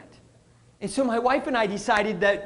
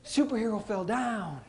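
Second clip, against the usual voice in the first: calm matter-of-fact; 8 dB quieter than usual. Retold or imitated. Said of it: "He picked himself up".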